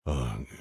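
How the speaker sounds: low grumbling groan. Acted. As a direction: groan it out, half annoyed. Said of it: "Mike groaned".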